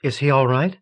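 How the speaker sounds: a gently voiced nun asking softly after him; light, hushed concern, lightly voiced woman; soft female voice. A narrator's reading. Nun asking the others about fallen Peter, soft and solicitous. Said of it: "The voice was soft, solicitous, female".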